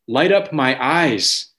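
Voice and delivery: measured, solemn reading of the verse; slow scripture reading. Acted. Pastor reads the psalm to the church, slow and solemn. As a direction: draw the words out slowly, reading from the psalm.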